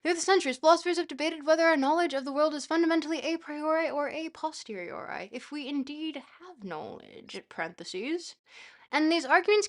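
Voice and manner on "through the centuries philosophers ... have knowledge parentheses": North American English. Shown as a demonstration. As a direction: back to a plain North American accent. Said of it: "going back into my North American English".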